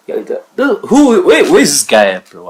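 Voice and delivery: high, loud angry burst; outraged. Real, not acted. Reactor wants to find the brother, outraged yell. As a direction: demand it like you want a fight.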